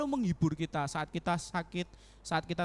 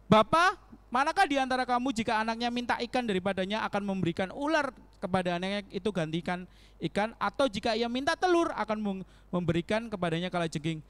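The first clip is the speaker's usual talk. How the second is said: scripture reading; 2 semitones higher than usual. Acted. Reads scripture passage aloud.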